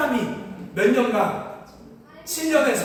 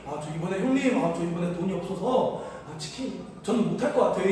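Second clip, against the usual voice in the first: sheepish excuse; 6 semitones lower, 4 dB quieter than usual. Retold or imitated. Broke classmate tells his seminary roommates he cannot chip in, sheepish and soft. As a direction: lower and softer, a sheepish classmate making excuses.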